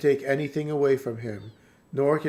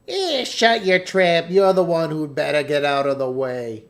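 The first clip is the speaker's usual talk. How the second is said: put-on feisty girl; 5 dB louder than usual. Voicing feisty girl character.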